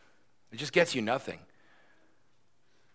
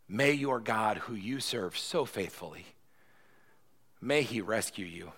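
reluctant sorrow; 3 semitones lower than usual. Acted. King Darius sadly sending his friend to the lions. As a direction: say it like you hate to.

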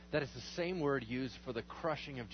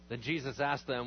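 ordinary talk

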